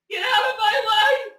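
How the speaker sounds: yelled through sobs; crying shout. Real, not acted. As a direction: scream it while crying. Sobbing shout at chat.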